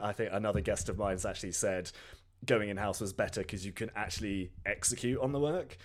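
hoarse, sore-throat rasp; croaky voice. Real, not acted. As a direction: speak through a recovering sore throat. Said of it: "please excuse my croaky voice".

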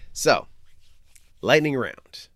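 announcer call. Shown as a demonstration. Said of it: "the part of the show that I call".

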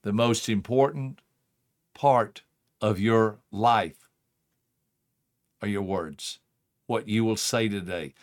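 earnest wake-up words to a loved one; tender reminder. Pretend. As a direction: lean in and tell them gently. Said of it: "me looking at you and saying".

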